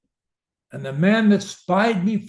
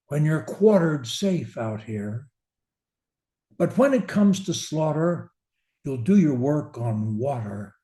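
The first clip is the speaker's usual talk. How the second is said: measured, feelingful verse reading; poem recitation. Acted. Speaking coach reciting Kipling to listeners, expressive verse. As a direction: read the ballad with rhythm and feeling.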